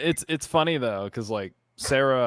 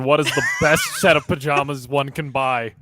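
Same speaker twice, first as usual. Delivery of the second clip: Lobster impression; 2 semitones higher, 4 dB louder than usual. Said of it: "I need to put on my best Lobster impression".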